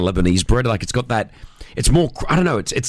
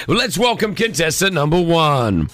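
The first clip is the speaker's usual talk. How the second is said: game show host. Acted. Host introduces contestant.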